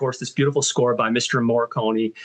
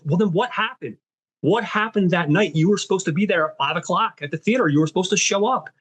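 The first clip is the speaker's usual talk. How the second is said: frustrated; 5 semitones higher than usual. Retold or imitated. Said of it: "you see him get frustrated, almost angry".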